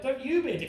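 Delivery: high-pitched swoop on "you"; bickering, stress on YOU. Acted. Back-and-forth row with dad.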